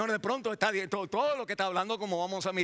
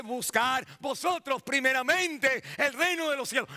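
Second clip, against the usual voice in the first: emphatic preaching; 6 semitones higher than usual. Acted. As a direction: drive the scripture home to the congregation. Preaches at raised force.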